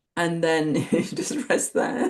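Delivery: speech breaking into laughter through the words. Describing just resting as awareness, laughing while talking. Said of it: "Sorry, it just makes me laugh".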